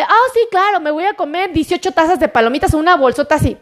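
quick, cheeky imitation of a glutton; mock overeager snacker. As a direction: play the greedy snacker, tongue in cheek. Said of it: "para que no vayan a aplicar la de".

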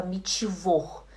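"mitivor" as mitchivor; own old chi. Retold or imitated. Teacher recalling her old mistake, "mitivor" with chi. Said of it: "Ele me atrapalhou muito".

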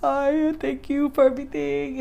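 high, bright put-on farewell, a touch forced; fake cheerful goodbye. Saying goodbye to family at the airport, lightly put-on cheer. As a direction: sing out the goodbye to hide the tears. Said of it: "at the airport still like".

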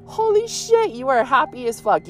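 hammed-up high squeal at the tomato plant; talking to the plant. Gardener teasing her wild tomato plant, high squeal. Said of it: "I was like".

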